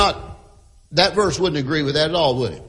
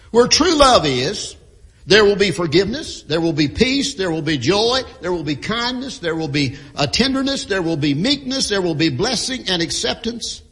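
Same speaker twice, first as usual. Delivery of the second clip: rhythmic sermon list, each line rising; preaching cadence. Acted.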